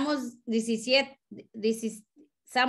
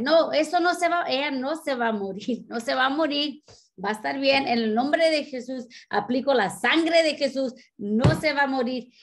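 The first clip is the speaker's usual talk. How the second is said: firm declaration; 3 semitones higher than usual. Retold or imitated. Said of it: "yo estaba declarando ella que iba a ser sanada".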